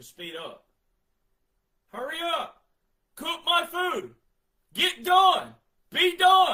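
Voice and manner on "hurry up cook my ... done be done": shrill, booming, very loud drawn-out yells. Acting out impatient people yelling at a microwave: imitating someone yelling. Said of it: "you're yelling at the microwave".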